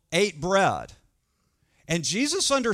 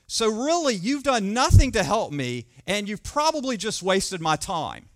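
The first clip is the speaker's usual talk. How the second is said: annoyed complaint; 3 semitones higher, 4 dB louder than usual. Retold or imitated. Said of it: "And he says to her".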